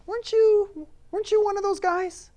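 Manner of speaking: put-on girl at the gate challenging Peter, high piercing voice; little girl voice. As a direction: mimic a sharp little girl calling him out. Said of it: "this little girl that just T-boned him and said".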